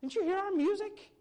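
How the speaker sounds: put-on high, loud child calling out to passersby; be the indignant little kid shouting at adults; kid yelling. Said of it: "The kid yells out".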